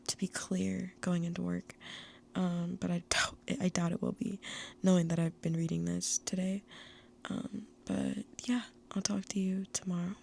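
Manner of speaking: hushed goodbye, barely voiced; whispering a tearful farewell to viewers; quiet wind-down whisper; soft whispered sign-off. Real, not acted.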